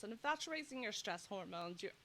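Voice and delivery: short of breath while talking. Real, not acted. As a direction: speak between breaths. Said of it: "I get out of breath when I talk".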